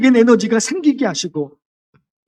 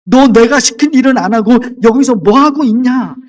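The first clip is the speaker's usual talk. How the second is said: scolding; 4 dB louder than usual. Shown as a demonstration. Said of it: "야단시키는 말씀이 아닙니다".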